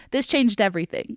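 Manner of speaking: ordinary talk, nothing marked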